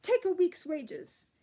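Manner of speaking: slow, high, loud bellow; angry shout. A narrator's reading. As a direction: bark the order out furiously. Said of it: "shouted the fourth assistant senior cook".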